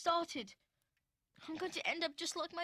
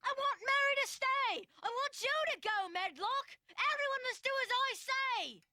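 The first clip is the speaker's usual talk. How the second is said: insistent, raised orders; imperious demand; 3 semitones higher than usual. Acted. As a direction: give orders like a spoiled young master. Boy orders housekeeper out.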